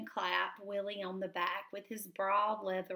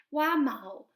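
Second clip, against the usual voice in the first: very hurt; 5 semitones higher, 6 dB louder than usual. A narrator's reading. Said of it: "very hurt".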